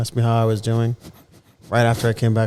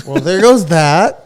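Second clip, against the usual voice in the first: mock deflated; 6 semitones higher, 8 dB louder, slower than usual. Real, not acted. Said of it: "You bursted my bubble".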